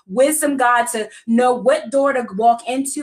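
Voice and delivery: earnest preaching prayer voice. Acted. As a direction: pray it with steady conviction. Leads a prayer.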